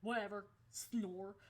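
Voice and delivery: loud flat mock boredom; bored dismissal. Hearing about the school threat, bored. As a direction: brush it off as boring. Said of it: "I was like".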